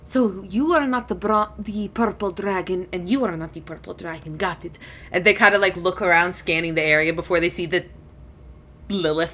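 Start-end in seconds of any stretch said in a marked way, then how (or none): 0.0-4.8 lightly voiced dragon, trailing softer; dragon, puzzling it out. Dragon sorts out the visitors, quietly matter-of-fact. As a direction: work it out softly as a dragon.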